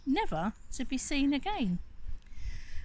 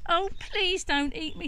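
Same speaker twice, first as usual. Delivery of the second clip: pleading goat; 8 semitones higher than usual. Acted. Goat begs troll.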